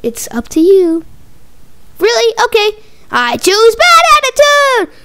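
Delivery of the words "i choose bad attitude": loud gleeful defiance; defiant shout. Acted. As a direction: yell it out with glee. Kid defiant choosing.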